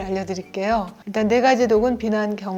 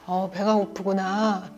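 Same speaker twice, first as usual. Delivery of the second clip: gentle understanding; slower than usual. Shown as a demonstration. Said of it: "이렇게 아이가 배고프다는 걸 우리가 잘 들어주고".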